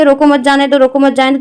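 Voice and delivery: रोको मत जाने दो run together evenly; no pauses. Shown as a demonstration. Teacher showing students how both sentences sound alike, no pauses. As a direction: read रोको मत जाने दो straight through, ignoring the comma. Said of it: "आपको हमेशा ये same लगेगा".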